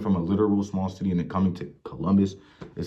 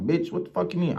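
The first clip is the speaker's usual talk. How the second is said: incredulous outrage; 10 semitones higher than usual. Retold or imitated. Retelling the manager's shift rule, incredulous high-pitched retort. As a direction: shoot the line up high like you can't believe it. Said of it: "I'm like".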